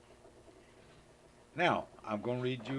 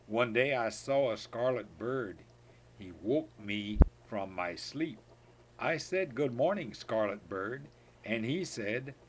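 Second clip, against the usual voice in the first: put-on reading to a child; slower than usual. Grandpa reading the good-morning poem to his granddaughter, lively. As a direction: perform it for a listening toddler.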